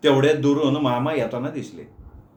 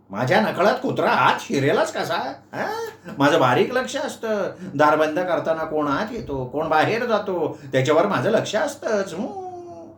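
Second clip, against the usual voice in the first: a lightly voiced boastful old uncle, higher; proud uncle; 4 semitones higher than usual. Uncle defends himself to Meenu, a touch of proud bluster. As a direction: brag with a little laugh.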